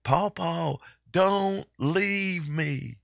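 put-on high, slow, pleading little-girl voice; little girl's plea. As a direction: imitate a small granddaughter begging her grandpa not to go. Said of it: "she was screaming with her little arms out".

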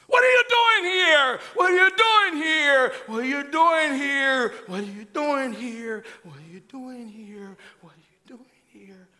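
shouted, then fading to a whisper. Shown as a demonstration. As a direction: start yelling, then turn it down to a whisper. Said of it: "Slowly turning down the Holy Ghost voice".

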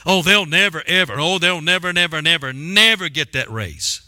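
sing-song mocking of the word never; preacher mimicking doubters who keep saying never; mock naysayer. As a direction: drone never over and over like a doubter. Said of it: "Why people like to say never?".

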